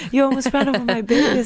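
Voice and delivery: mock outraged mother. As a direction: repeat it up high, outraged. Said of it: "sa jeg bare".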